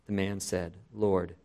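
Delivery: reading the passage aloud with voiced characters; preacher reading John chapter nine aloud to his standing congregation, dramatically; dramatic scripture reading. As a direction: tell the Gospel story to the congregation, acting the speakers.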